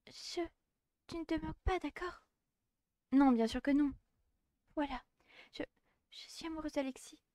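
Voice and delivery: a bashful schoolgirl in a tiny high voice; shy girl voice. Acted. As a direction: confess it barely daring to speak. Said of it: "c'est bon, j'ai retrouvé".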